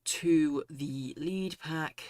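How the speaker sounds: winded after running, still out of breath. Real, not acted. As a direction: talk while catching your breath. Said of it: "Sorry, I'm out of breath".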